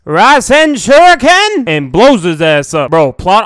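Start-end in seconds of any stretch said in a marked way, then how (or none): 0.1-1.6 high, drawn-out attack cry; mock anime scream. Naruto unleashing his Sage Chakra attack, slow high scream. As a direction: stretch the attack name into a high yell. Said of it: "Naruto screams".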